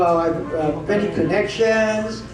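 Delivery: slow, stretched mock American accent; a hint of mock Chicago accent; imitated Chicago accent. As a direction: mimic an expatriate's Chicago accent. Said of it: "L A accent. But Chicago accent pala".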